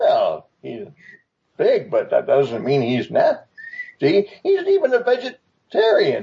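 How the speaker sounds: put-on swooping, gummy, toothless old tiger voice. Voicing a sleepy old tiger scolding an adventurer: old toothless tiger voice. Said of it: "an old, toothless tiger, as you could probably hear from his voice".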